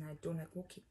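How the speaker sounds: whispered complaint, barely voiced; whining whisper. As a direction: murmur it like a sulky aside. Arguing with drunk friend.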